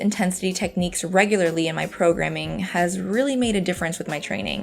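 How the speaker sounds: calm, even voiceover read; walk them through it calmly; voiceover narration. Acted.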